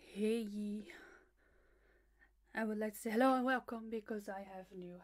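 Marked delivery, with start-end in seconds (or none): 0.0-0.8 unvoiced whisper of the call; whispered echo. Echoing her own call as a whisper. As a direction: breathe it out as a secret.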